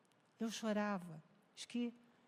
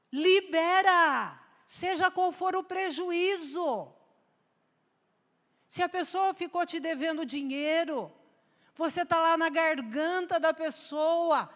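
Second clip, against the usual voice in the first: higher and much louder, fervent sermon climax; preaching at full force; 5 semitones higher, 9 dB louder than usual. Acted. Preacher urging the church to forgive debts, fervent and loud. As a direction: exhort the congregation, rising to a near shout.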